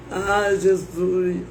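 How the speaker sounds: slow, drawn-out sigh of a plea; mock tearful lament. Imitating herself praying on the curb, slow mock lament. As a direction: moan it slowly, lightly imitating tears. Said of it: "chorando. E eu falava assim".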